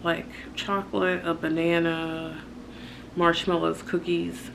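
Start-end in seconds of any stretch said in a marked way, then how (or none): none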